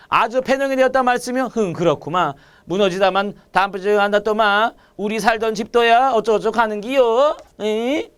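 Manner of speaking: a light Daegu accent, read aloud; Daegu dialect. Shown as a demonstration. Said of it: "대구 사투리 느낌으로". (가볍게 대구 사투리로 읽기)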